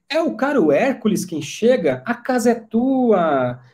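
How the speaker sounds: high, drawn-out welcoming greeting; effusive welcome. Acted. Servant greets Hércules at the palace, effusive welcome. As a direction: greet an honoured guest, high and lingering.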